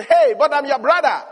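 loud pleading shout as the brother; retold shout. Joseph shouting to his brothers as he is sold, loud plea. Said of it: "And he's shouting".

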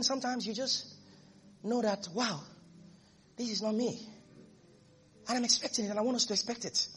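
soft, hushed sermon voice; quiet intimate preaching. Acted. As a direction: draw the congregation in close, softly.

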